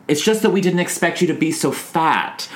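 a light imitation of Rose's sugary innocence; sweetest voice. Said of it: "in the sweetest voice says".

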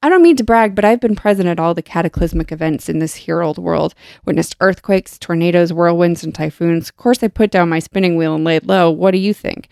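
lightly voiced indignant spider, reading aloud; read-aloud spider speech. A narrator's reading. Podcaster reading the spider's proud complaint to co-host, read-aloud. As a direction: read it as a character's boast, lightly performed.

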